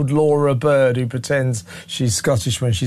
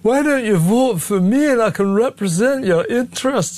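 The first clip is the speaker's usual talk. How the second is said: a light put-on Scottish lilt, pitched up; mock Scottish accent; 7 semitones higher than usual. Host mocks MP canvassing Arbroath in light fake Scottish accent. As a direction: impersonate her faking a local Scottish voice to win votes. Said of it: "her voice is this, that she speaks like this".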